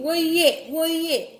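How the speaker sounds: high-pitched imitation of a frantic searcher; retold agitated demand. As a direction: act out his insistent searching. Acted retelling of him still searching.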